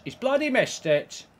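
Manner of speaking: fed-up gamer yelling at a miss; exasperated. Real, not acted. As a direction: throw it out in disbelief. Player misses, gamer frustrated.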